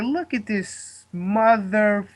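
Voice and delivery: slow, scornful aside under the breath. Retold or imitated. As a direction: sneer at the guy in a slow, disbelieving aside. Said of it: "and I'm like".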